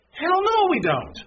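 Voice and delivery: high, loud burst; emphatic shout. Real, not acted. Emphatic outburst from pulpit.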